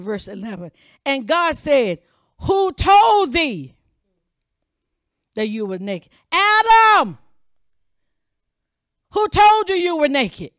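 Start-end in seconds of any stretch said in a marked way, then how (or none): 2.4-6.1 God's accusing question, slow and loud; booming question. Acted. Preacher voicing God's question. 6.3-7.2 loud, high call; God calling Adam across the garden; shouting a name. Acted. 9.1-10.5 louder and higher, hit told; preacher voicing God's challenge to Adam; forceful challenge.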